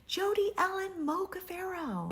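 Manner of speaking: high, loud call across a stadium; a father's call ringing across the bleachers; calling out a name. Retold or imitated. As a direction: call the full name out from far away. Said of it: "heard someone yell out".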